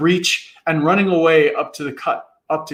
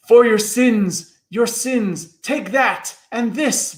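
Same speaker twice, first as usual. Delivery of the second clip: bellowing; 7 semitones higher, slower than usual. A narrator's reading. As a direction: thunder out judgment. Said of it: "bellowed the voice".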